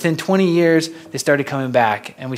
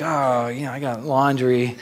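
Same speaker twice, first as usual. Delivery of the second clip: evasive excuse; 4 dB quieter than usual. Retold or imitated. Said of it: "And he's like".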